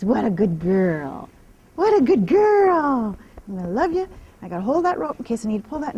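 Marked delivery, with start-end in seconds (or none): 0.0-1.3 drawn-out, lower soothing praise; slow low praise. Real, not acted. Trainer soothing her mare with slow praise. 1.7-3.2 higher, louder drawn-out praise; slow bright praise. Real, not acted. Trainer lavishing praise on her mare, high and slow.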